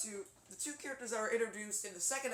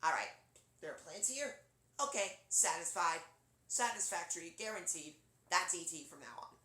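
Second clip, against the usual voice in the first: E T voice. Acted. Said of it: "his voice kind of also like".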